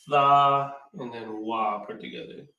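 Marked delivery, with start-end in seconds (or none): 0.1-0.7 "tha" as a long open THAH; pronounced "tha". Shown as a demonstration. Teacher shows the class the word, sounding out "tha". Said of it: "It's pronounced". 1.4-1.8 "wa" as an open WAH; pronounced "wa". Shown as a demonstration. Teacher builds the word from parts, sounding out "wa". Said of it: "It's pronounced".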